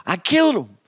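loud, high-pitched hammed-up horror; squeaky mock anguish at his own strength; mock panicked kid. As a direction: wail it like an overdramatic child. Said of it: "And I'm like".

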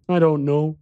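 put-on high, small boy's voice; little boy voice.

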